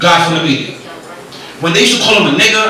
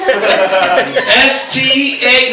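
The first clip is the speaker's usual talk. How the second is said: slow spelling; 4 semitones higher, much slower than usual. Retold or imitated. Kid spelling slowly.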